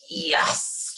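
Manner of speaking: high, breath-filled exclamation; emphatic yes. Retold or imitated. Reacting to a favorite lyric, emphatic yes. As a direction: let out a high, airy yes. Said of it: "and I'm just like".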